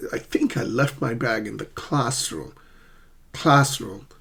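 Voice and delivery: "classroom" with the weight on CLASS; first-syllable stress. Shown as a demonstration. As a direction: lean on the first half of "classroom". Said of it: "Always stress the first syllable".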